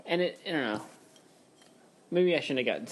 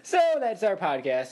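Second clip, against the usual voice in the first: retold abrupt sign-off; 5 semitones higher, 4 dB louder than usual. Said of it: "took a deep breath and said".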